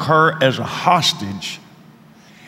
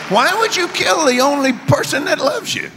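much higher, mock pleading woman's voice; imitating pleading woman; 12 semitones higher than usual. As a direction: plead gently as the hostage. Retold hostage woman pleading.

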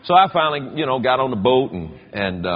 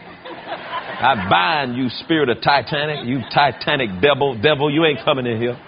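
binding prayer. Retold or imitated. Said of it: "I started binding the spirit".

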